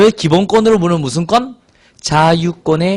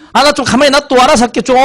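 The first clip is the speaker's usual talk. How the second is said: high, exasperated acted outburst; annoyed daughter; 8 semitones higher than usual. Daughter telling mom to leave her be, irritated outburst. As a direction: plead to be left alone, voice pitched right up. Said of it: "엄마한테 막 짜증 나는 거야".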